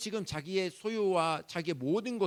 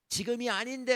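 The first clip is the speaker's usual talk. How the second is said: 마지못한 말투; 8 semitones higher, 4 dB louder than usual. Retold or imitated. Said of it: "하면서도 주실 때가 있어요".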